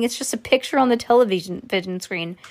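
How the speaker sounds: ordinary delivery, nothing marked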